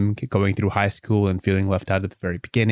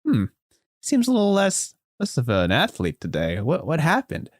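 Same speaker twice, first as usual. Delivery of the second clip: gossiping whisper; 8 semitones higher than usual. Retold or imitated. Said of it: "like, whispering".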